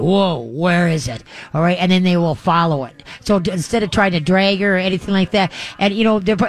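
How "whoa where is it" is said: slow, lightly voiced curious dog; a hint of a puzzled dog looking around; speaking for a dog that hears a squeaker, slow; dog's thoughts. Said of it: "they'll turn their head and go".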